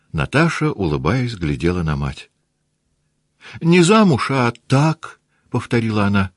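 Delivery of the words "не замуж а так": high, louder playful insistence; insistent girl. Acted. Наташа настойчиво повторяет матери, высоко и громко. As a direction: insist with a high bright push.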